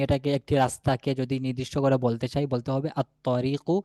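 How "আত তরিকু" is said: "আত-তরিকু" slow, with doubled heavy t; silent lam. Shown as a demonstration. Teacher naming the definite road, "আত-তরিকু" with lam silent. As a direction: take "আত-তরিকু" slowly, without any l. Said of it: "লামের উচ্চারণ নাই".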